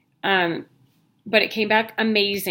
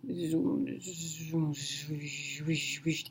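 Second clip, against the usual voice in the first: much softer, breathy zoom, zoom, repeated; machine whooshing noise; 4 semitones lower, 13 dB quieter, much slower than usual. Shown as a demonstration. Corrected imitation of the scanner's whooshing, very soft. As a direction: hush the whoosh down to almost nothing. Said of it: "Yeah, that's what it does".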